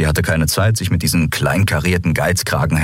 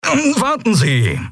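much higher, slow call after her; much slower than usual. Acted. Merchant calling the captain back, lightly raised. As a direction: stop her, a bit desperate. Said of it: "rief Delarco".

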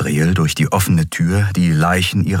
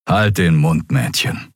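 almost tender. Acted. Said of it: "sagte er beinahe liebevoll".

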